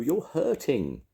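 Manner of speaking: high, drawn-out complaint; pained cry. A narrator's reading. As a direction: complain slowly that it hurts. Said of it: "cried Pooh".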